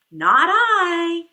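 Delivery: a loud, blunt "no" from the duck; loud refusal. Acted. Duck refusing to help the little red hen, loud blunt refusal. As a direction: bark it out, flat refusal.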